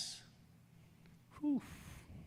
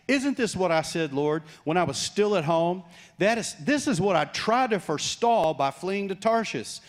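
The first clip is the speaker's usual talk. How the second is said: louder, higher indignant complaint to God; raging prophet; 6 semitones higher, 4 dB louder than usual. Acted. Jonah complaining to God about mercy, raging. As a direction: spit out the grievance like a sulking prophet. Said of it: "he's raging".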